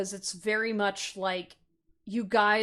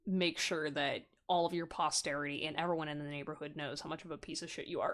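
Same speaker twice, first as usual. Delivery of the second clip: put-on aggressive older sibling; 6 semitones lower, 5 dB quieter than usual. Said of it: "like, aggressive tone".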